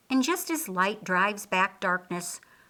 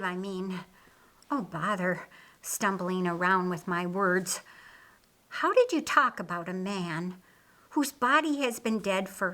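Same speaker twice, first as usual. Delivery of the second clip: Martha, flustered. Acted. Martha to Jesus, searching for words, mildly flustered. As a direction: stumble over the words, a little flustered.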